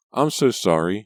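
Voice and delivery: a touch of sobbing, cousin apologizing; sobbing apology. A narrator's reading. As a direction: choke the apology out. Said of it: "she said, sobbing".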